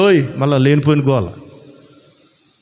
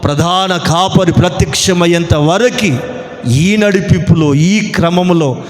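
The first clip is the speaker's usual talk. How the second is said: slow, chanting preacher's blessing; measured, solemn church benediction; closing benediction. Real, not acted. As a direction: intone the blessing slowly, building to a drawn-out Amen.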